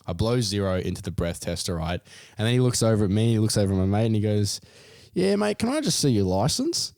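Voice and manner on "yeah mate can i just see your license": much higher mock cop. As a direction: ask casually for the license. Cop asks for license.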